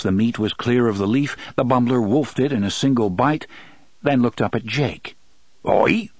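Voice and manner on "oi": creature yelp. Acted. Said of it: "it said".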